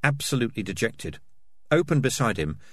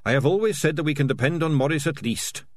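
higher-pitched voice of a trusting friend; lightly voiced character, pitched up with relief; earnest, trusting Dangerous Beans; 5 semitones higher than usual.

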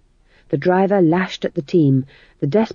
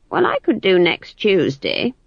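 ordinary tones; 3 semitones higher than usual. Acted. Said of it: "in far more ordinary tones".

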